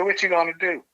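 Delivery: high, put-on suspicious woman; coworker's voice. The coworker asking what she plans, high put-on voice.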